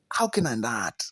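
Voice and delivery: low, quiet exasperation; resigned. Real, not acted. Reviewer unable to stop questioning the film, resigned. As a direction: ask it low, as if defeated.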